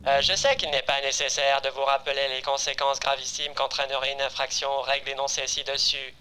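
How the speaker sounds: synthetic, machine-like announcement; robot voice. Acted. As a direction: speak like a cold computer. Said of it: "Ouais, ça devrait faire robot".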